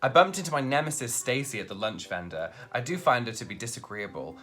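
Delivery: lightly voiced prim lady; posh formal translation. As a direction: read it like a stuffy aristocrat. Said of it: "posh translation of slang".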